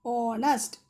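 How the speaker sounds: Honest said with silent h, starting on the O sound; pronouncing honest. Shown as a demonstration. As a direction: say Honest as ɔnəst, no h at all. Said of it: "How we pronounce?".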